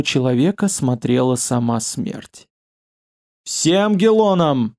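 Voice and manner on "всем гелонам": slow, high inhuman cry; a dreadful voice not of a man. Acted. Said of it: "вскрикнул этот человек нечеловеческим голосом".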